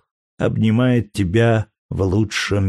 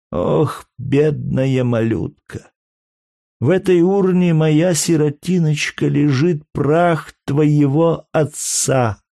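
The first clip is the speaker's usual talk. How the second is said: higher, slow, choked-up words; grief-stricken mother fighting sobs, slow and higher; holding back sobs; 6 semitones higher, slower than usual. A narrator's reading. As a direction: force it out through held-back tears. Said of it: "прибавила она с трудом, сдерживая душившие её рыдания".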